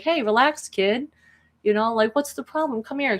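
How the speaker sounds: high, lilting reassurance; kind. Acted. Woman comforts a crying boy, kindly high voice. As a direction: soothe an upset kid, pitch lifted. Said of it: "'Cause she's very kind".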